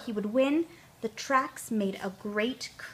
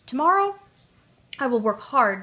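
resolute Tootle; 3 semitones higher, 6 dB louder than usual. A narrator's reading. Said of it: "decided Tootle".

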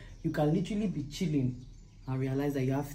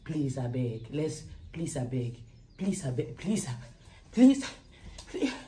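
begging brand. Retold or imitated. Mimicking Calabar brands begging for free things, mock pleading. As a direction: imitate a brand begging for freebies. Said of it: "They like".

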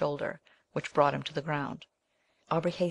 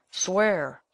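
cried out; 3 semitones higher, 4 dB louder than usual. Acted. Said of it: "cried the dying man".

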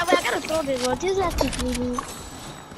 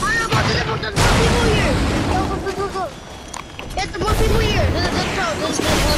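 urgent shouting; 4 dB louder than usual. Real, not acted. Urging teammate loudly.

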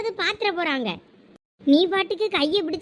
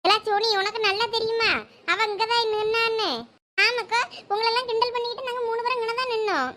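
put-on higher, anxious voice calling about the missing girl; worried young woman; 5 semitones higher than usual. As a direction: fret aloud, searching for her friend. Women search for missing Sandhya. (காணாமல் போனவளைத் தேடும் பதற்றமான குரல்)

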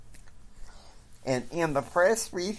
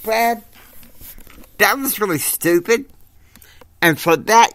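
high, loud furious yell at Brad; angry shout; 10 semitones higher, 9 dB louder than usual. Acted. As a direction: scream at him, pitch way up. Boss berating Brad for stupidity.

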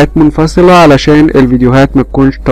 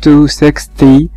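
slow teacher voice; much slower than usual. Shown as a demonstration. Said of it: "هنعد مع بعض from one".

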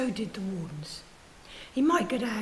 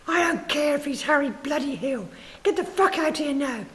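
loud, higher military shout; tough soldier shouting; 5 semitones higher, 6 dB louder than usual. A narrator's reading. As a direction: bark it like an impatient soldier. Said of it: "the tough military man shouted".

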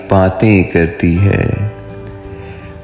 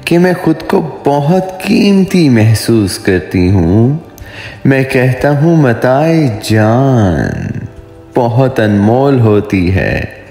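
poetry recitation; 3 semitones higher than usual. Acted. Poet voicing a dialogue of lovers for his viewers, romantic poetry recitation. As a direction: recite a love poem, lingering on line endings. Recites own love poem.

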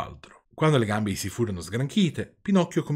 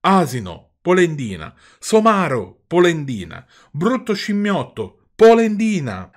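rising, louder, jeering insults that build to a yell; angry taunting shout; 7 semitones higher, 9 dB louder, slower than usual. Acted. Mastro Antonio taunts Geppetto, building to a furious shout. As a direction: hurl each name harder than the last.

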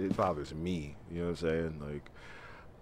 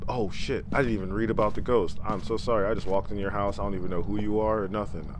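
fast, louder nervous babble; flustered apology; 3 semitones higher, 4 dB louder than usual. Real, not acted. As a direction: rush the apology to the ghost.

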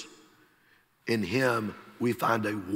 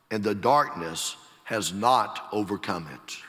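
slow, measured gospel proclamation, swelling in the middle; scripture declamation; 3 dB louder than usual. Acted. Preacher quoting John's gospel to the congregation, slow proclamation. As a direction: proclaim the verse with weight, stretching key words.

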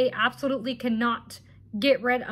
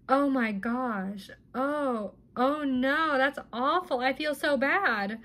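drawn-out mock sympathy; lightly mocking, sarcastic pity; slower than usual. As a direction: imitate fake concern, dragging the words out. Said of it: "being very sarcastic".

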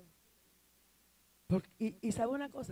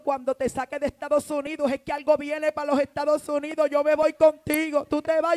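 urgent plea; 6 dB louder than usual. Retold or imitated. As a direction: plead with rising urgency, pushing to the end. Acting out woman's urgent plea. (súplica insistente, cada vez más fuerte)

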